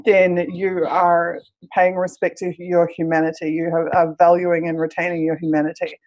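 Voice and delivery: hoarse, croaky speaking voice. Real, not acted. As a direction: talk through a croaky throat. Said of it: "my croaky voice".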